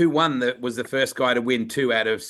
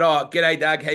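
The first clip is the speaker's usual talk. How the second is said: nervous greeting; 3 semitones higher, 4 dB louder than usual. Retold or imitated. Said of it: "and I said".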